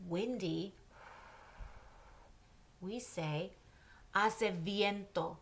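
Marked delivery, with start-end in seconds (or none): 4.1-5.4 "hace viento" slowly, "A-se VYEN-to", silent h; slow model. Shown as a demonstration. Teacher slowing "hace viento" for students to repeat. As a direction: drag out "hace viento" so students can follow.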